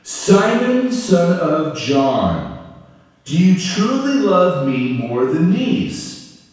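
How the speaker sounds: slow, earnest question from Jesus; Jesus asking tenderly. Acted. Jesus asking Peter on the beach, slow and earnest. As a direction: ask slowly, searching his heart. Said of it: "Jesus said to Simon Peter".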